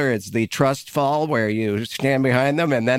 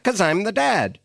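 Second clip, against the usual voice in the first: mock stern dad; 7 semitones higher than usual. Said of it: "you have to be like".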